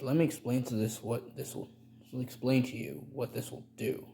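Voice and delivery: stammering restart mid-explanation; stumbling over words. Acted. Teacher explaining the solution to viewers, stumbling and restarting. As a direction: trip over the phrase and restart it. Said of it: "Sorry for the stuttering".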